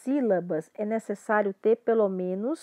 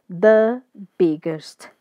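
The biggest, slow and louder; slow model phrase; 3 semitones lower, 5 dB louder, much slower than usual. Shown as a demonstration. Teacher writing and reading the phrase slowly, loud. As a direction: stretch The biggest out for the class. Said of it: "Vou até colocar ele em letra maiúscula".

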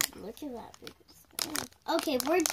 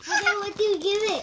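laughing; 8 semitones higher, 9 dB louder than usual. Real, not acted. Kid reacting to sour candy.

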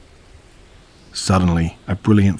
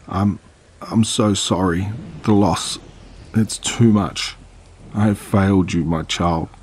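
tearful; 2 semitones higher than usual. Acted. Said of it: "her final sob".

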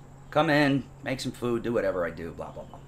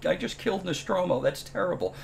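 horrified gasp; 9 semitones higher, 5 dB quieter than usual. Retold or imitated. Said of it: "and I'm like".

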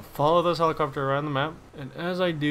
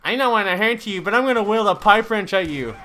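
higher-pitched mocking quote; imitated game character; 4 semitones higher, 4 dB louder than usual. Gamer mocking a pipe-wrench attacker, imitation. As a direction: mimic the attacker in a raised voice. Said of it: "why did he say it like that?".

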